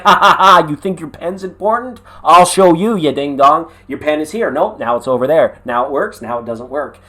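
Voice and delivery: lightly voiced mocking deity laughing at you; mocking God. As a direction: tease like a smug god. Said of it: "God is actually laughing at me".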